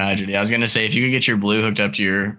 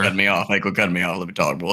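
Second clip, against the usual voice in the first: gruff overprotective dad; 3 semitones lower, faster than usual. Pretend. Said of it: "let me turn into a dad real quick".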